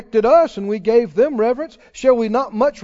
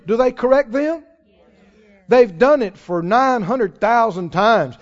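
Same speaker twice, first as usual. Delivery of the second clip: ordinary talk, nothing marked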